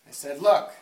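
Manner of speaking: loud, brash Brooklyn comic voice; Brooklyn accent. Retold or imitated. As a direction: tell it like a Brooklyn stand-up, loud. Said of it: "put on a Brooklyn accent".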